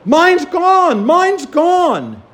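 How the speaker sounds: high, loud cry of alarm; panicked yell. Retold or imitated. Girl on the plane yelling to the pilot, high frightened shout. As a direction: shout it as if your phone just vanished. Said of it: "yelled out".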